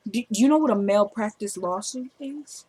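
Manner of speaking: soft, pointed question; pointed threat. Retold or imitated. Patient threatening the doctor with a lawsuit, quietly pointed. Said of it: "Can you see her saying it like that?".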